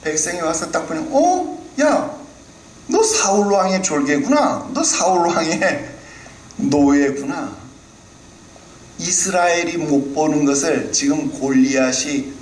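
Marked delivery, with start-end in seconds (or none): 1.1-7.6 high sneering taunt; a mock taunting bystander; mocking jeer. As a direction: jeer at them as slaves of the king. People mocking Saul's soldiers.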